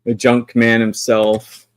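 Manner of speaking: put-on Sean Connery accent. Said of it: "Sean Connery style accent".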